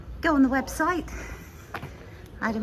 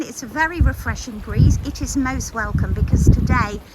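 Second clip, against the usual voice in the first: wind on mic; 5 dB louder than usual. Real, not acted. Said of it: "do excuse the wind again".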